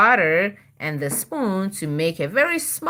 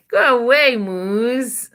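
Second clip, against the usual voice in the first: higher, louder go away; shooing the moose; 4 semitones higher, 5 dB louder, slower than usual. Pretend. Mom reading to child shoos the moose, higher and louder. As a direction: shoo the moose off, playfully.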